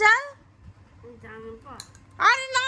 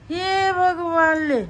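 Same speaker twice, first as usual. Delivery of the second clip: exasperated sigh; slower than usual. Real, not acted. Child refuses to play, parent exasperated.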